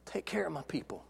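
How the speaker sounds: hushed whisper, almost no voice. Acted. Preacher closing Jesus's charge to Peter, in a whisper. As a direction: breathe it like a sacred secret.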